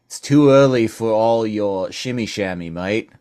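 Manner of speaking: put-on Australian, cutting in; Australian polar bear. Polar bear cutting short a rambler, Australian accent. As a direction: brush off the chatter in Australian. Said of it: "leaning into my Australian polar bear".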